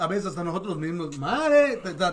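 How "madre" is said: high, loud mock Yucatecan exclamation; exaggerated Yucatecan accent. Host poking fun at fellow Yucatecans, exaggerated Yucatecan accent. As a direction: burst out in a thick Yucatecan accent. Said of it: "o sea, con el acento".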